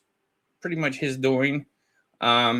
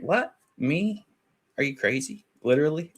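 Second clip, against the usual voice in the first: mock disbelief; 4 semitones higher than usual. Mock-shocked reply to a request.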